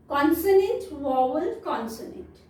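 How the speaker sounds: "consonant, vowel, consonant" spelled out slowly, each part separate; slow spelling-out. Shown as a demonstration. Teacher breaking down CVC words for kids, slow. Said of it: "CVC words means".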